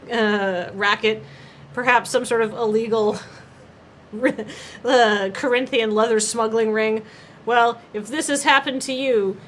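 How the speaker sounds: mock legal advert, earnest and measured; lightly voiced serious lawyer. Lawyer seeking class action clients, mock-serious ad read. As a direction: sound lightly like an earnest TV attorney.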